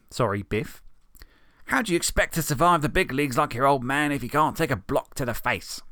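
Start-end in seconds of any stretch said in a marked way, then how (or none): 1.6-5.8 Billy taunting Morty, sneering; bully Billy. Acted. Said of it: "continued Billy".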